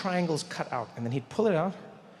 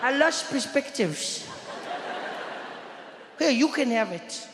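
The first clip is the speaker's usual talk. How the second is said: laughing weary friend; 8 semitones higher than usual. Retold or imitated. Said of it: "He said".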